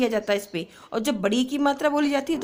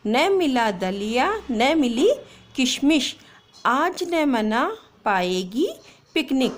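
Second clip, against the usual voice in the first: put-on slow, clear poem reading for kids; slow read-aloud; slower than usual. Shown as a demonstration. Teacher reading a poem slowly to pupils. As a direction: read the rhyme slowly, word by word. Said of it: "एक बार वापस से मैं आपको reading करके बता देती हूँ".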